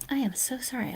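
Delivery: sleepy, mid-yawn apology; words stretched by a yawn. Real, not acted. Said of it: "I'm super yawny".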